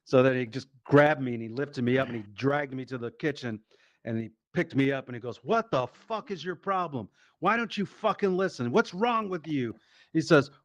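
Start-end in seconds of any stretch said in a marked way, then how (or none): 5.4-9.8 exasperated, higher-pitched mock tirade; scolding dad. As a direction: act out a dad demanding answers. Acts out dad scolding drunk son.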